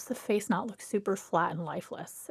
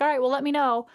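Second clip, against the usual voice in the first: unsure shrug; 5 semitones higher, 5 dB louder, faster than usual. Retold or imitated. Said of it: "and you're like".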